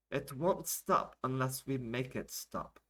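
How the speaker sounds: slow, deliberate insistence; emphatic translation. Acted. Alia translates the rant, slow and emphatic. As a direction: weigh each word slowly.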